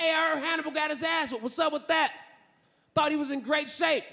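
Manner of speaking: a hint of a surprised buddy; gossiping friend. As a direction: ask it up high, puzzled.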